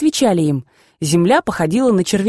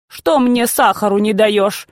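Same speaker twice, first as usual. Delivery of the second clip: put-on whiny spoiled child; 2 semitones higher, slower than usual. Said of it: "капризным тоном балованного ребёнка".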